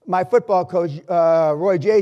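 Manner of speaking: normal talking voice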